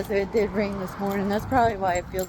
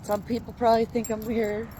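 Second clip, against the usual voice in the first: hiccuping while talking; words broken by hiccups. Real, not acted. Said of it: "hiccuping away".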